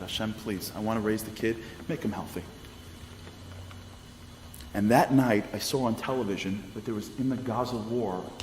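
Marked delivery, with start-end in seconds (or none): 0.0-2.4 softer, pleading prayer to God; hushed prayer. Retold or imitated. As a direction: beg quietly for a healthy child. Mother praying for her unborn son.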